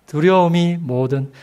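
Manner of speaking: ordinary talk, nothing marked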